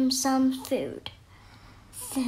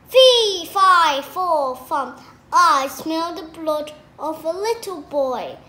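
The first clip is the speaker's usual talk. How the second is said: giant shouting; 5 dB louder than usual. Acted. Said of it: "he shouted".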